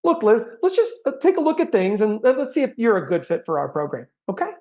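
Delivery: light, upbeat invitation; friendly direct ask. Shown as a demonstration. Sales coach demoing a friendly line to a prospect, light and upbeat. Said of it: "I can say it more directly".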